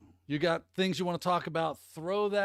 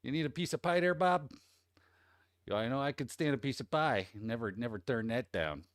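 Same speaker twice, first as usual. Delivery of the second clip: light put-on Chicago accent; Midwest accent. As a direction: playfully do a Midwest local's accent. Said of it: "in that accent".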